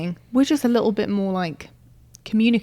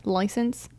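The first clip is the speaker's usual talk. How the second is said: saying License with American vowels; American accent; 6 dB quieter than usual. Pretend. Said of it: "that was really bad".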